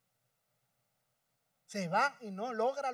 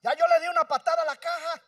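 the repeat said louder and higher; 7 semitones higher, 8 dB louder than usual. Shown as a demonstration. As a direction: lift the repeat into a cry. (repetido más fuerte y agudo)

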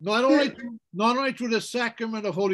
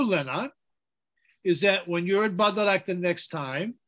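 usual speaking voice

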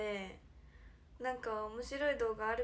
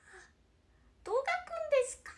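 put-on high, fast shy-girl protest at being filmed; imitating Konaa; 10 semitones higher than usual. Idol imitates bandmate Konaa dodging the camera, high and fast. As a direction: squeal it out like a girl caught on camera. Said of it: "みたいな".

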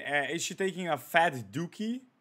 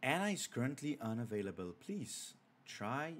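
quick, softer, flat-read answering-machine line; auto-reply voice; 3 semitones lower, 10 dB quieter than usual. Shown as a demonstration. Streamer trying out the auto-reply text, a mock machine read. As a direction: read it like a stiff automated message. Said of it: "sounds cringe".

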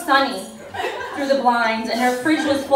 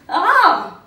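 sharp cry, higher and louder; 7 semitones higher, 6 dB louder than usual. Acted. Roxy yelping at the cold floor, loud cry. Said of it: "she ejaculated loudly".

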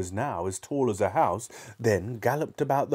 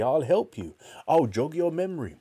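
high, keen offer; eager cry; 7 semitones higher, 3 dB louder than usual. A narrator's reading. Father offers to help his son remember, eagerly. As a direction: lift the pitch eagerly. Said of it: "cried Mister Cranky".

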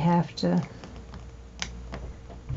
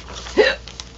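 hiccup gasp. Real, not acted. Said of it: "I got the hiccups".

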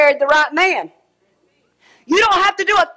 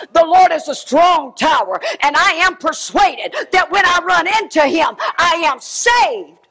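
preaching declaration. Real, not acted. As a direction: proclaim it, land it slow. Shouted declaration.

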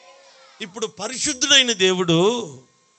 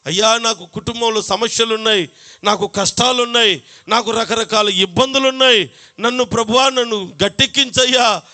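pleading prayer; 3 semitones higher than usual. Retold or imitated. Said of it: "అని నువ్వు ప్రార్థన చేసినప్పుడు".

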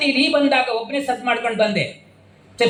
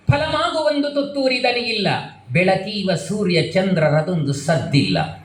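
poem recitation; 4 semitones lower than usual. Shown as a demonstration. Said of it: "recites poem lines".

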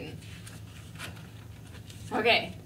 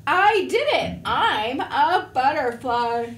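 higher and louder, thrilled; new butterfly cheering, higher and louder; triumphant; 3 semitones higher, 5 dB louder, slower than usual. Acted. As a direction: burst out in triumph.

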